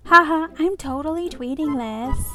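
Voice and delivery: gleefully mean bystander; mocking gossip. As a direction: jeer for everyone to hear. Gossiper mocks old woman.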